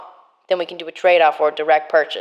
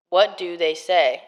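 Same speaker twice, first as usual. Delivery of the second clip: drawn-out question; slower than usual. Acted. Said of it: "you're doing it so clear, and then you just went".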